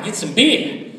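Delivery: imitating a Boston buddy, "beer" without its R; mock Boston drawl-free R-dropping; thick Boston accent. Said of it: "that real thick Boston accent".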